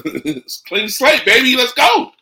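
excited cheer. Real, not acted. Celebrating coach news.

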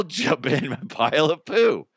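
ordinary delivery

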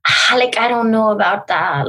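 lightly put-on French-Spanish accent; hybrid French-Spanish accent. Shown as a demonstration. Showing her favourite fake accent, French-Spanish hybrid. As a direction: try a vague French and Spanish blend. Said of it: "a hybrid French and Spanish".

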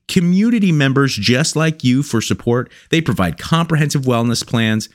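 steady promo voice for the sponsor; ad read. Acted. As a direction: read the ad like a pitchman.

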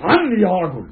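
high dismissive snap; seething anger. Acted. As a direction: brush him off, high pitched. Brutus dismisses Cassius in quarrel.

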